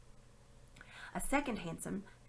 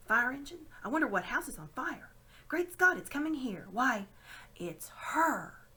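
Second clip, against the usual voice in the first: loud, higher, rising alarm; alarmed excitement; 6 semitones higher, 6 dB louder than usual. Acted. Diggory sees the witch approaching, alarmed. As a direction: build to the dreadful realisation.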